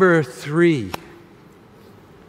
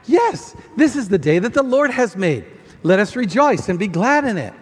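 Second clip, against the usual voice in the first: joyful response; 3 semitones higher than usual. Acted. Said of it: "Flat tire".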